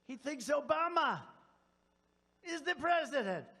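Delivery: high, loud mocking cry; mock outrage. Speaker mocking a TV host's claim, loud and high. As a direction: ridicule the claim at full volume.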